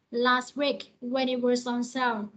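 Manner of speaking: was linked into on as "wasOn"; linking. Shown as a demonstration. Teacher shows linking was on slowly. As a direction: join the z of was to on. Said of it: "Chữ was này là âm giờ cuối".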